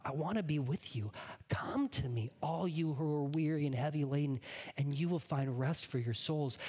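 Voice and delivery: Jesus gently saying he likes you; tender Jesus. Acted. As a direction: speak it warmly to one listener. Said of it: "Jesus looks at you and says".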